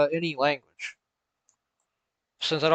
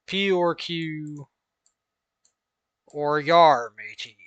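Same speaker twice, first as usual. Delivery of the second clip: pirate voice; slower than usual. Pretend. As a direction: ham up the pirate. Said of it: "like a pirate".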